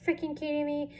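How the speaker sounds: mock-yell at the clumsy trainee; angry drill instructor. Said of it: "she lost it".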